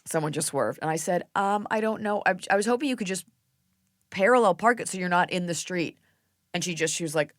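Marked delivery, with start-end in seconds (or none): 1.3-6.0 polite request. Retold or imitated. Re-enacts timid reply to neighbor.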